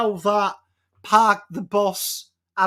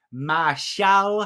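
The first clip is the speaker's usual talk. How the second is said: mock French accent on the surname. Shown as a demonstration. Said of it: "say it with a French accent".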